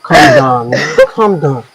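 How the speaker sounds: consoling. Acted. Classmate comforting a sobbing girl, consoling. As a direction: soothe someone who is crying. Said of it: "I was just trying to console you".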